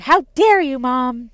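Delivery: put-on high, loud outburst like an affronted little kid; mock indignation. Young daughter home from school to her mom, mock outrage.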